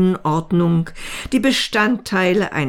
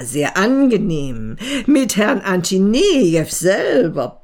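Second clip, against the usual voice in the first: teasing. Acted. Colleague teases Antinejew about kiss.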